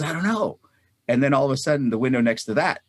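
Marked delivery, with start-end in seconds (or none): 0.0-0.6 high-pitched retold answer; imitating someone calling back, voice up high; acted reply. Acted reply of contractor below.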